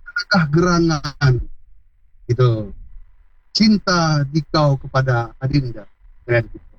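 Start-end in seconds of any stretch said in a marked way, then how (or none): 0.0-1.3 put-on courtly old-theatre declamation; high literary speech. Shown as a demonstration. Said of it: "Ngomongnya sastra tinggi". 3.6-5.9 lightly declaimed courtly line; a touch of royal theatre diction; high literary speech. Shown as a demonstration. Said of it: "Ngomongnya sastra tinggi".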